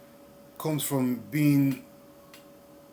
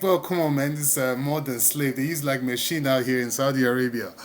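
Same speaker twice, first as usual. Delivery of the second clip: imitating his friend's joke; 4 dB louder than usual. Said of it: "it's like".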